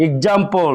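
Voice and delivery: এক্সাম্পল said egzampl; voiced gz in এক্সাম্পল. Shown as a demonstration. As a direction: model gz. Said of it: "উচ্চারণ করতে হবে".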